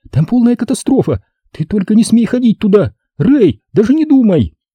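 breathless, high-pitched gasping outcry. Narrator reads a dog groomer bursting into the room to warn the others, gasping. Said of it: "задыхаясь, воскликнула она".

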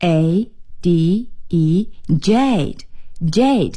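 slow, careful, spelled-out jade.

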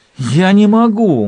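gasping, barely any air. A young woman, losing consciousness in her sleep, answers a demand; gasping for breath. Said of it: "Малта задыхалась".

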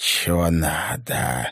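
grudging, unwelcoming snake-like hiss. A snake-man answers uninvited guests through a door crack, with an unfriendly hiss. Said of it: "недружелюбно прошипел".

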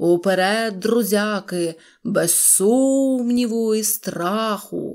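terrible frenzied cry, very slow. Reading a fairy tale, a little fish strikes a theatrical pose and declares: in a terrible voice. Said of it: "заявив страшним голосом".

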